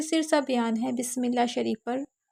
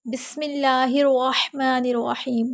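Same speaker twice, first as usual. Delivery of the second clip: bold, clear recitation of بسم اللہ الرحمن الرحیم; clear loud recitation; 4 dB louder, slower than usual. Shown as a demonstration. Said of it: "بلند آواز سے پڑھنا". (بلند آواز سے صاف تلاوت)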